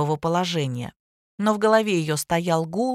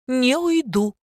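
wailing; 5 semitones higher, slower than usual. A narrator's reading. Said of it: "выла Аня".

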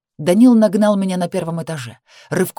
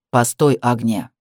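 low urgent plea; 6 semitones lower than usual. Acted. Brother urgently stops fleeing girl.

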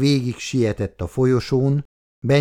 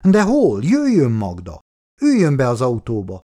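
urgent call; 2 semitones higher, 4 dB louder than usual. A narrator's reading. Man urges Magda back into the car, urgent call. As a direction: call out with some impatience.

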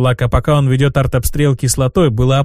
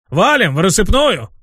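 bark; 5 semitones higher than usual. Acted. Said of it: "рявкнул".

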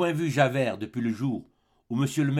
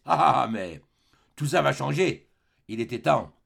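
harsh scolding; 3 semitones higher, 4 dB louder than usual. Acted. Javert scolds and mocks Fantine.

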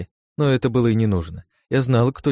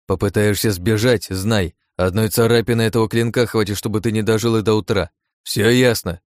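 threatening. Acted. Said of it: "угрожающе сказал я".

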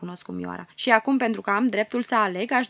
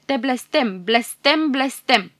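dying cry; 3 semitones higher, 5 dB louder, slower than usual. Acted. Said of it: "destulă putere să strige".

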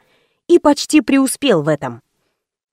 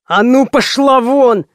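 barking; slower than usual. A narrator's reading. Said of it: "рявкнул бандит".

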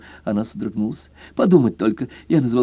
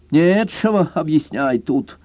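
slow, higher sulky voice; offended; 6 semitones higher, slower than usual. A narrator's reading. Offended girl refusing to explain, slow and sulky. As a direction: sulk it out slowly. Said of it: "обиженно процедила Зорка".

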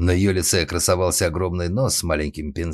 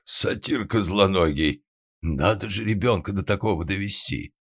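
angry roar; 3 semitones higher than usual. A narrator's reading. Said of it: "И тут же взревела".

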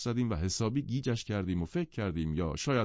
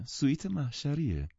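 polite and calm; 7 semitones higher than usual. A narrator's reading. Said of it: "مؤدبانه و آرام گفت".

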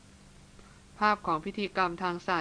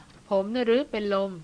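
slow, louder disbelieving cry of "เป็นลม"; shocked shout; 3 semitones higher, 5 dB louder, slower than usual. Acted. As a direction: shout it in stunned disbelief, drawn out. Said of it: "เขาตะโกนขึ้นอีก". (ตะโกนถามอย่างไม่อยากเชื่อ)

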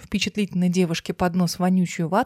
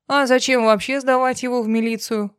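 cold smirk; 3 semitones higher than usual. Acted. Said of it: "холодно усмехнулся Кравцов".

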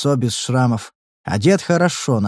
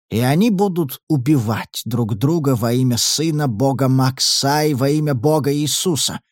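usual speaking voice

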